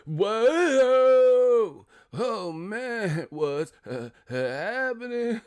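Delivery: high, drawn-out white-boy impression; Bob from marketing. The speaker playing white Bob from marketing, high drawn-out voice. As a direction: stretch the words out in a high goofy voice. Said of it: "Bob from marketing".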